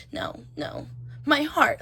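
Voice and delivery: hammed-up heroine, near-whispered no's rising into the plea; mock dramatic. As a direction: imitate a heroine overwhelmed by her feelings. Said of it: "like, it's so dramatic".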